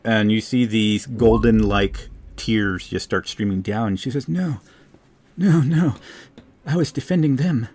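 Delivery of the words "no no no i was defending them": voice breaking. A narrator's reading. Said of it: "you can see her voice breaks completely".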